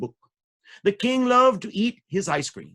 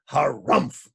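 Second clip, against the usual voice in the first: harumph; 4 semitones lower than usual. Shown as a demonstration. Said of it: "the king is gonna say".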